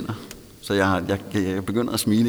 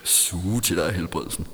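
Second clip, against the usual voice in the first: mocking repeat; 3 semitones lower than usual. Shown as a demonstration. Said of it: "repeats phrase to mock".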